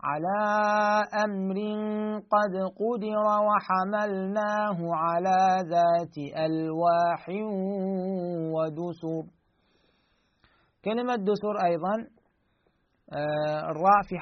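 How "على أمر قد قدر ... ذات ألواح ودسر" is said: slow, drawn-out chant; solemn tajweed reading; Quranic recitation. Shown as a demonstration. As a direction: recite slowly, stretching each vowel. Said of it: "هكذا".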